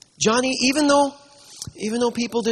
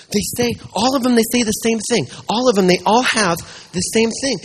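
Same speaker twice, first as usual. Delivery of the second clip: put-on louder, keen little boy; eager child; 3 semitones higher, 5 dB louder than usual. Child eagerly tells the pastor what every note says. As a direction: tell it like the best secret ever.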